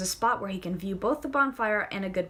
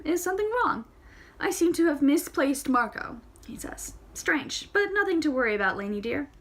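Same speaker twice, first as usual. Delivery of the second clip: higher, louder dialogue; character voices; 6 semitones higher, 4 dB louder than usual. Acted. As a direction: play both with lifted voices. Tara and Chandresh voiced.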